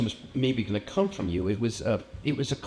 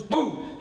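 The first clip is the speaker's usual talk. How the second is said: sudden boom; 10 semitones higher than usual. Acted. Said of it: "leans in fast to my face and goes".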